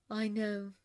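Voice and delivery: mildly soothing reassurance; understated comforting tone. A narrator's reading. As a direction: gently comfort a crying friend. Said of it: "soothed Elphaba".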